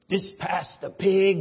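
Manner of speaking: loud Deep South pastor on the phone; Deep South accent. Retold or imitated. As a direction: answer loudly with a Southern twang. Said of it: "somebody from way down south".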